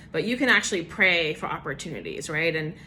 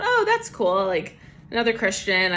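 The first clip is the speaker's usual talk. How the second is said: retold thrill at meeting another Christian; pleasantly surprised; 2 semitones higher, 3 dB louder than usual. Retold inner thought, pleasant surprise.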